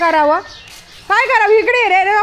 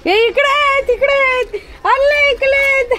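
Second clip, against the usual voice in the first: much higher cooing voice; 9 semitones higher than usual. Real, not acted. Woman finding the newborn puppies, high cooing baby talk. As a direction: coo at the puppies like a delighted mother.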